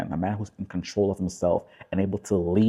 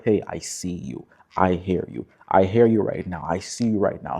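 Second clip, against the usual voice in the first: calm reassurance. Shown as a demonstration. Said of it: "the key word there is using the word you".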